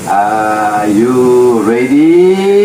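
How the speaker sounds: slow drawn-out rallying shout. Real, not acted. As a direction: stretch it out to rouse the crowd. Driver hypes riders again.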